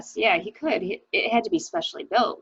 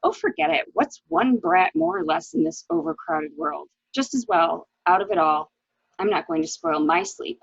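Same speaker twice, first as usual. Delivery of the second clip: callous husband. Retold or imitated. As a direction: brush the dead child off with a scoff. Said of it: "And then Richard said".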